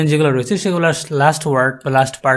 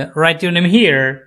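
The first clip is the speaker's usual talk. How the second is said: awkward command with a raised last word, "here"; wrong command intonation; much slower than usual. Shown as a demonstration. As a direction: pitch lifted up on "here". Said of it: "এভাবে বলতে পারবেন না".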